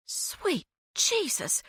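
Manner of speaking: slow, hushed, shaken breath; fearful whisper. A narrator's reading. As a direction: gasp it out in quiet dread. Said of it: "whispered fearfully".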